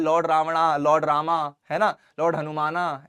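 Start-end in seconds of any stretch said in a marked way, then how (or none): 0.0-1.4 रावणा and रामा each ending in long "aa"; anglicised names. Shown as a demonstration. Teacher giving examples, रावणा and रामा read with long final "aa". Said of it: "रावण को रावणा लिखा जाता है". 2.2-3.1 हनुमाना with an added final "aa"; anglicised name. Shown as a demonstration. Teacher giving another example, हनुमाना read with added final "aa". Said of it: "ऐसा होता है".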